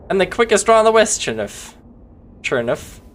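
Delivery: a playful Wild West gunslinger drawl; mock cowboy drawl. Streamer doing a Western cowboy accent for chat. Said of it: "he doesn't talk like that".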